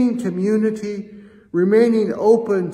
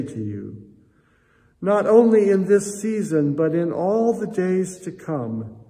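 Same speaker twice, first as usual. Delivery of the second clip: prayer. Acted. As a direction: pray it gently over the gifts. Offering prayer.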